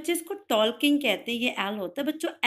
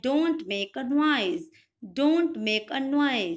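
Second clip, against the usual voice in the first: slow command; much slower than usual. Shown as a demonstration. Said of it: "teachers आपको बोलते हैं".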